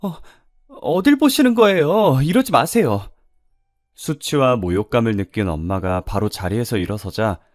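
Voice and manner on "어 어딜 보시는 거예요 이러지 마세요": high, loud, flustered objection; alarmed protest. Acted. Waitress fends off the staring customer, alarmed and indignant. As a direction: act a startled woman fending him off, voice jumping up.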